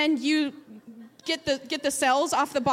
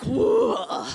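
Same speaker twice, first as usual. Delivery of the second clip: whispered, dazed whoa as the faint hits; woozy whoa; 4 semitones lower, 4 dB louder than usual. Retold or imitated. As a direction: breathe it out like the room is spinning. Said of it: "it's like".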